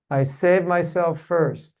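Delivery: slow, deliberate affirmation; affirmation with conviction. Shown as a demonstration. Leader says an affirmation for the group to repeat, with conviction. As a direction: say it slowly, like you mean it. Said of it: "say it like you mean it".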